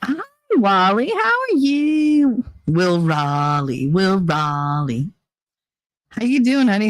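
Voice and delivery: drawn-out, playful British greeting; hammed-up British hello; mock British accent. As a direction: put on a British accent, pitch swooping up. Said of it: "the British accent".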